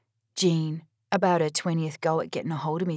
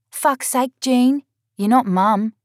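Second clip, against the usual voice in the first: louder, higher, slow and pointed; angry retort; 6 semitones higher, 7 dB louder, slower than usual. Acted. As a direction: bite back at her sister. Sisters quarrel on the phone.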